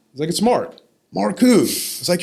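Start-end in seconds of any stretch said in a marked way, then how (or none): 0.3-0.8 name called high and loud; retold loud call. Grandson giving his name to grandfather, retold loud call. 1.1-1.6 high, loud imitated grandfather; loud retold puzzlement. Grandfather not recognizing grandson on phone, loud imitation.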